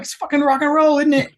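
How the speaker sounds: high, mock-rowdy rock and roll cry; partly hammed-up tipsy whoop, pitched high; drunken rock-and-roll cheer. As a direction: imitate a hammered crew member whooping. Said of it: "And so he was like".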